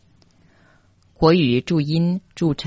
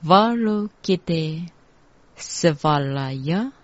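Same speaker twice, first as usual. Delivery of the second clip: joined-up mantra reading. Shown as a demonstration. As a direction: recite syllables in connected groups. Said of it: "连起来念".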